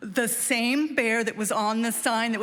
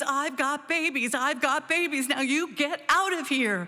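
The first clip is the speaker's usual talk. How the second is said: put-on scream, toned down and held back; 4 semitones higher than usual. Retelling mom's hardest punch at the bear: imitating mother screaming. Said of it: "she punches really hard and she screams".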